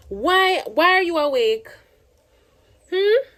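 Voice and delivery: high, lilting questions to a little one. Real, not acted. Asking Irie why they are awake, high-pitched child-directed questioning. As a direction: ask it high, with a rising "hmm?".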